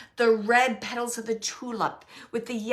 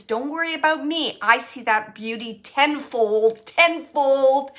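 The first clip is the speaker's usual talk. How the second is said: louder reassurance; 2 semitones higher, 7 dB louder than usual. Acted. Medium voicing husband's reassurance.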